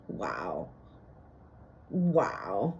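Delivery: awed whisper. Retold or imitated.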